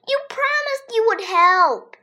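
hissed whisper. A narrator's reading. Andrea reminds AJ of his promise, in a whisper. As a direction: whisper it sharply at him. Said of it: "Andrea said".

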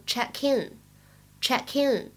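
"check in" run together, the k carried into "in"; linked pronunciation. Shown as a demonstration. Teacher showing learners liaison, "check in" linked. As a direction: link "check in" as one word, "che-kin". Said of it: "有check和in的连读".

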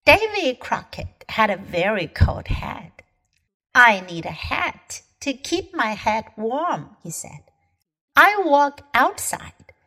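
put-on lively read-aloud for children; children's storybook reading; story narration. A narrator's reading. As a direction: tell it like a picture book to kids.

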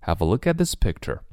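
"at" with its t held back before "this"; unreleased t. Shown as a demonstration. Teacher modelling for learners, silent t in "at". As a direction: link "have a look at" and swallow the final t. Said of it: "它不读出来".

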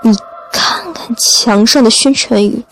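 touchy doctor defending his cures; a bit angry. Acted. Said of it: "赵瑞好像有些生气".

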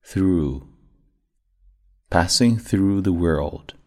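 through with tongue between teeth, slow and deliberate; passing through the world, slow with a clear th; clear th sound. Shown as a demonstration. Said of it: "咬舌音".

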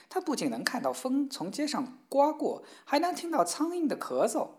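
proud boast. Acted. Mother boasting of daughter's cleverness.

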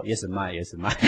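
"Yes, mind, yes, mind" chuckled out as a punchline; teasing laughing quote; mocking with a laugh. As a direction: laugh at the futility while quoting. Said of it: "每一个人还是说".

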